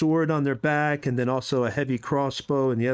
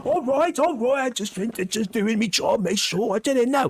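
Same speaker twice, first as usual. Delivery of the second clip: sheepish guard; 8 semitones higher than usual. Acted. Chastened guard backs down.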